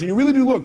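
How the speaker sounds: "really" pushed up high and loud; stress on really. Shown as a demonstration. Speaker to audience, insisting they truly look, stressing "really". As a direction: lean hard on "really" as if insisting.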